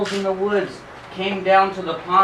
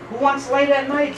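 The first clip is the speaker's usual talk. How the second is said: scoffing coyote; 10 semitones higher, 3 dB louder than usual. Acted. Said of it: "says Coyote".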